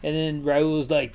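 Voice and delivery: ordinary delivery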